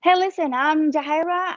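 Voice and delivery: acting out an eager-to-be-heard caller; phone pitch to attorney. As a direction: open a cold call, voice lifted. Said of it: "I started calling lots of attorneys".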